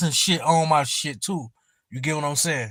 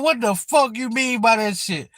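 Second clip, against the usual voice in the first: higher, baffled retold question; incredulous challenge; 6 semitones higher than usual. Streamer asks what the troll means, incredulous. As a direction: replay your confusion with raised pitch.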